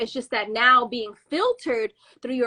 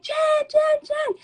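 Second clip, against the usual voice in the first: high, repeated mock call. Storyteller voicing her friend on the street, calling out. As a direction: imitate calling after someone walking off.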